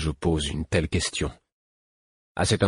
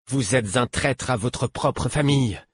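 slow, higher provoking accusation; defiant; 6 semitones higher than usual. A narrator's reading. Captive boy accuses his captor, defiant. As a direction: taunt him slowly. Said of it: "d'un ton provoquant".

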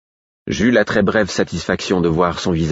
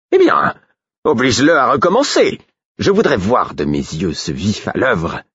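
higher, louder imperious order; loud command; 5 semitones higher, 3 dB louder than usual. A narrator's reading. The king loudly orders Guillot to force it again. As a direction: bark the order like a demanding king.

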